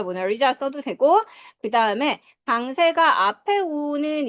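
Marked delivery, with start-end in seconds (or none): 0.0-0.5 "모나리자"의 "자"에 강세; "모나리자"의 마지막 "자"를 힘주어; 끝음절 강세. Shown as a demonstration. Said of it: "모나리자 강세". ("모나리자"의 "자"를 세게)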